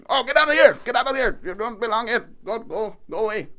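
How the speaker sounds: high-pitched imitation of a shopkeeper chasing off a beggar; loud at first, then repeated dismissals; mock irritated eviction; retold angry shooing.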